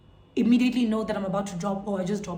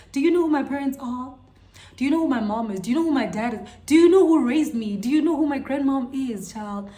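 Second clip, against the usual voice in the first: mock-outraged questions, building louder and higher; indignant challenge; 3 semitones higher, 5 dB louder than usual. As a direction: rattle off an affronted challenge, peaking near the end. Indignant retort in her head.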